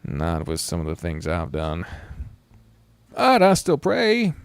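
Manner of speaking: a lightly voiced weary man, half-joking about his faith; character voice. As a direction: play him wry and rueful, a little self-mocking.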